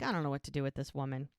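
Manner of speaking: quick, low exasperated aside; eye-rolling exasperation. Retold or imitated. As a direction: toss it off fast and low, fed up. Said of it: "Lizzie's just rolling her eyes".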